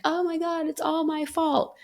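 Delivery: self-blame mimicked high; panicked inner voice. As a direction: throw up your hands, it's my fault. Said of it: "when I'm like".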